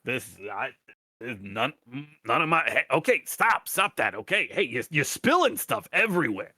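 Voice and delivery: nervous new guard backing off; flustered guard. Acted. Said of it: "he's just kind of backing up, like".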